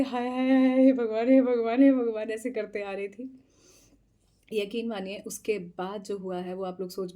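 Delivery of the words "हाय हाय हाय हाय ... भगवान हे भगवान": loud, higher wail of "हाय" and "हे भगवान"; wailing all the way along the road, loud and theatrical; dramatic wailing. Retold or imitated. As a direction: moan it like a melodrama. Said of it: "अजीब तरीके से".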